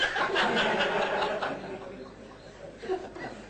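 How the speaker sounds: high breathy burst of laughter; real amused laugh. Real, not acted. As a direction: let a big laugh escape. Laughs at beard joke.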